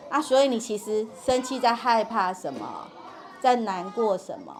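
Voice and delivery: lightly soothing, pitch sinking line by line. Shown as a demonstration. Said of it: "这样子去安抚他". (轻轻安抚，音调逐句降低)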